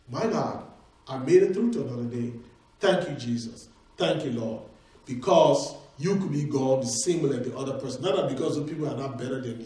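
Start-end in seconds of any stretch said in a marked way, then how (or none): 0.1-4.6 soft, lowered prayer of thanks; humble gratitude. Acted. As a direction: murmur thanks as if just waking to another day. Acts out grateful prayer on waking.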